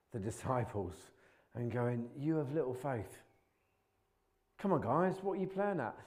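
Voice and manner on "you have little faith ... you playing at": exasperated scolding. Retold or imitated. Jesus scolding his disciples.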